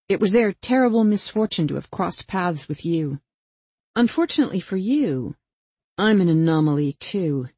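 lightly voiced Angela, emphatic condemnation; avenging killer, scornful. Killer condemns the murderer at knifepoint, scornful. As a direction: lay into him, punching key words.

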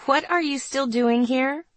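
smiling question. A narrator's reading. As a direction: ask with a smile in the voice. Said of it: "I asked with a smile".

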